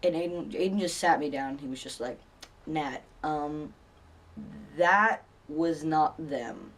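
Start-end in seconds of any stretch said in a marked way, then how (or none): 2.7-6.7 slow, halting, spaced-out words; grave explanation. Retold or imitated. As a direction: break it gently, pausing between phrases. Friend sits teller down to explain.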